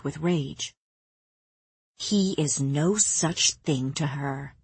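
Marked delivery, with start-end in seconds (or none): 2.0-4.5 snarled. Acted. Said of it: "she snarled".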